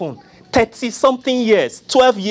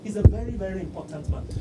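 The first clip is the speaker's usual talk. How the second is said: disciple pleading; 11 dB quieter than usual. Retold or imitated. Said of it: "I'm feeling that".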